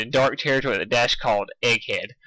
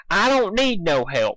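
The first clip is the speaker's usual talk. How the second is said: stubborn slow insist; 6 semitones higher, slower than usual. Acted. Applejack stubborn.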